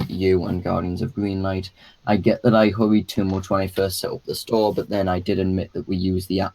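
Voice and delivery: flat, level monotone reading. Shown as a demonstration. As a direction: read it all on one even tone. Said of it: "I'll just go my dual monotone voice".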